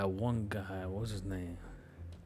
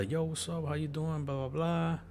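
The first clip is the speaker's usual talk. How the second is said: higher, quick-fire everyday chatter; regular greeting; 6 semitones higher than usual. Retold or imitated. Band members greeting him, regular talk. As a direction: imitate ordinary small talk, pitched up. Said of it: "Everybody was talking regular".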